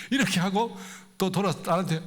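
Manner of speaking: ordinary delivery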